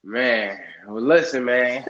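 out of breath, short of breath; talking short of breath. Real, not acted. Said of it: "I'm getting short of breath".

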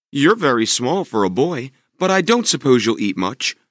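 a lightly voiced motherly giantess. Giantess warning Jack about her husband, lightly voiced. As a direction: warn the boy kindly.

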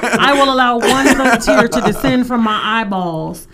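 laughing through a mock solemn vow; laughing along. Real, not acted. Host joking about one thug tear, laughing. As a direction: chuckle while playing it grand.

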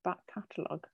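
talking around a pen; pen clenched in the teeth; mouth full. Real, not acted. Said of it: "Sarah has a pen in her mouth".

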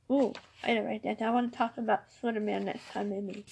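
hoarse, quiet voice from a cold; raspy, worn-out voice with a cold; raspy whisper. Real, not acted. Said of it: "excuse my voice".

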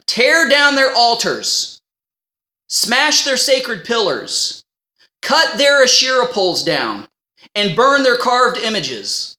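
slow, each command weighted; slow emphatic reading. Real, not acted. Reading scripture to the congregation, slow and weighty. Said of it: "slow emphatic reading".

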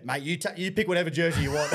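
imitating a stoked mate, laughing through it; mock delighted coach, chuckling. Club mate ringing to gloat about reserve grade, laughing. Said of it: "stoked as fuck".

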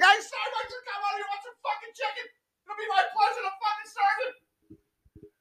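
overly cheerful server. Retold or imitated. Chick-fil-A worker stopping cars on the highway, high sugary cheer. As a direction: sing it out like a grinning greeter. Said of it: "like, fucking, like".

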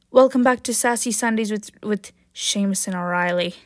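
mock Irish show-host greeting; badly faked Irish accent; horrible Irish accent. Podcaster imitating a comedy episode's host, bad Irish accent. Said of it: "that's my horrible Ireland, Irish accent".

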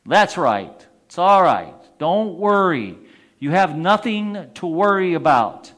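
loud, calm reassurance slowing right down; reassuring Lord. Retold or imitated. The Lord calmly tells the man to let go, slow and reassuring. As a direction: soothe him, then draw out the last line. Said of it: "the voice comes back".

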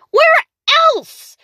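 high loud where; surprised exclaim. Acted. The narrator teasing the witch, high and surprised. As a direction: pop it out.

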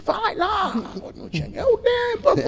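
high-pitched impression of an insistent friend; mock urging. Friend pushing him to go to her room, mock urging.

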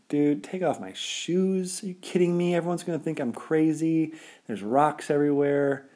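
high, disbelieving protest; like you can't believe what you heard; incredulous. Retold or imitated. Arguing back at inner voice.

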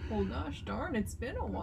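lightly voiced folksy dad; gently mock a dad's musing; a hint of dad-speak; imitated dad. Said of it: "so dad-like. Like, gosh".

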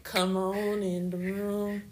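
slow, drawn-out church lady; old church lady voice. Retold or imitated. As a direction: call them in like an old church mother. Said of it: "You gotta get your old lady voice".

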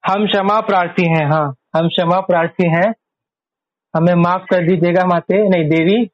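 mock-formal shuddh Hindi apology; playfully grand, old-fashioned formal Hindi; formal pure Hindi. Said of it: "क्या mummy शुद्ध हिंदी में कैसे बोलते हैं".

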